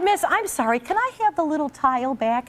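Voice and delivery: high, laughing, sheepish ask; laughing meek request. Real, not acted. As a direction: plead for it back with a giggle. Meekly asking for the tile.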